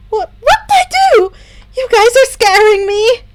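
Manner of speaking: rattled, begging for an answer; scared confusion. Acted. Himiko scared by her friends' reactions, pleading.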